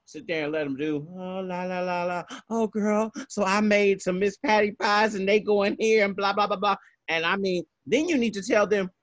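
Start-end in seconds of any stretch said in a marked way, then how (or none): 1.2-6.8 mock idle chatter. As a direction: imitate chatty, oblivious ladies. Mimicking guests' idle chatter on air.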